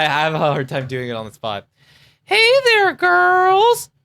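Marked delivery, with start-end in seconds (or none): 2.2-3.9 held-breath squeezed throat; holding breath. Shown as a demonstration. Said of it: "like, I hold my breath".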